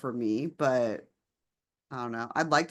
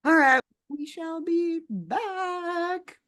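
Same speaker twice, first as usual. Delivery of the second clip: demon voice; 11 semitones higher, 3 dB louder, much slower than usual. Pretend. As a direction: drag it out like a demon. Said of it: "Demon voice, demon voice".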